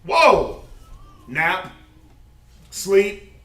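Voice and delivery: high, loud, laughing astonishment; hammed-up thrill at free time; excited disbelief. Preacher acts out the mind thrilled at an early day, loud and high. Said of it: "the mind is usually".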